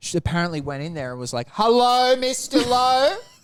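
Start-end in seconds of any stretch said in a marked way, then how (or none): 1.5-3.2 shrill, very high, loud shouted voice. Retelling how Mum greeted Mister Lowe, imitating Carol yelling. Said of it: "They're just yelling at each other".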